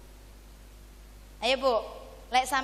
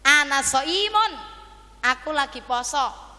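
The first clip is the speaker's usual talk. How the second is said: fasting hen's protest; 3 semitones higher, 6 dB louder than usual. Acted. Hen telling rooster she is fasting, loud protest. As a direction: declare it loudly as the indignant hen.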